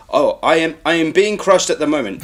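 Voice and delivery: lightly imitating a calm, over-explaining heroine; measured mock narration of her own peril; mock calm narrating. Heroine narrates being crushed by a squid, mock calm. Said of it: "she was calm as you like".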